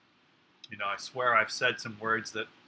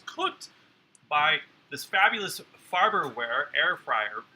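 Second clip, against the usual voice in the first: ad read; 3 semitones higher, 4 dB louder, slower than usual. Pretend. Ad-style product plug.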